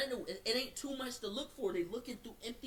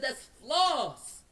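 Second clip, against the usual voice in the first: retold shout; 7 semitones higher, 9 dB louder, much slower than usual. Retelling shouting at police officer.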